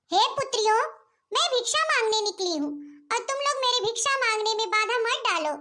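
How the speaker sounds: a hint of a solemn holy woman; lightly voiced yogini. Elder sister as yogini lectures the sisters, lightly solemn.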